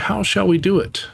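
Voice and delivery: eager little pig; Piglet voice. Acted. Piglet's question.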